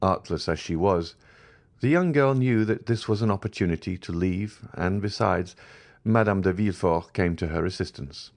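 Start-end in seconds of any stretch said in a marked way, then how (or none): none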